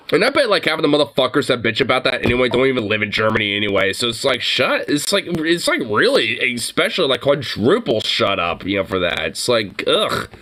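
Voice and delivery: venting in disbelief, voice climbing; exasperated rant. Real, not acted.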